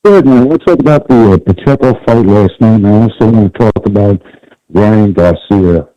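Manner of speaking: overmodulated, fuzzy phone audio; like a caller too close to the mic; distorted phone line. Real, not acted. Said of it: "You sound very distorted".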